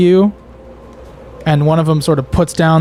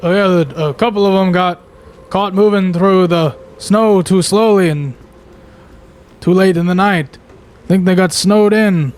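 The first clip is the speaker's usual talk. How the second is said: slightly raised, lightly voiced worker; worker calling out; 3 semitones higher than usual. Worker telling travellers about lost teenagers, calling out. Game master answers as the worker.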